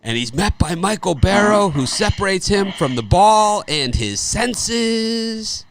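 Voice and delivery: high, loud, slow broadcaster call, each word drawn out; Keith Jackson. Retold or imitated. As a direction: boom it out like a veteran play-by-play man. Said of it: "Keith Jackson says".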